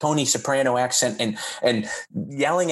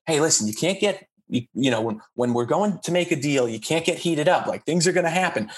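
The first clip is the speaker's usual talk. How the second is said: lawyer character; 2 semitones higher than usual. Acted. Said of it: "and I'm his lawyer".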